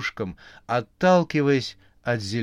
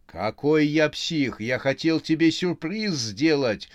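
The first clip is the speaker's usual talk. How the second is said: higher, louder scared yell; 5 semitones higher, 5 dB louder than usual. A narrator's reading. Vadim yelling he wanted a surprise. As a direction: shout back, still scared. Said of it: "заорал".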